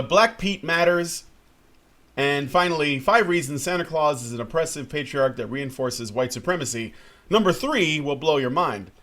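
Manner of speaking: hyped-up clickbait title read; clickbait video narrator. Acted. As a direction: sell each title like a headline. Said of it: "you gotta get all the clickbait in".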